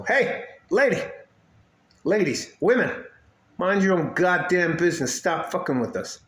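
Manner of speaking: a hint of a high, mocking call-out; telling off. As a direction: scold the nosy ladies, half joking. Telling off nosy women.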